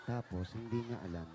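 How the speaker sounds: low, hushed, secretive murmur; mock whisper. Host relaying the contestant's secret to the boss, mock whisper. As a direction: pass it on softly like confidential gossip. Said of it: "Ibubulong mo rin ba?".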